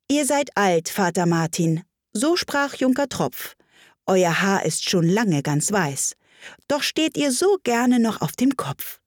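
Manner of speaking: measured verse, lifted phrase openings; poem recitation. Acted.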